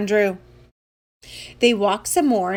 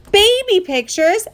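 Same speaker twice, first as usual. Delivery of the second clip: high, loud disbelief; appalled, high-pitched question; horrified yell; 10 semitones higher, 4 dB louder than usual. Acted. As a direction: cry out as a mortified kid. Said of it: "yelled Andrew".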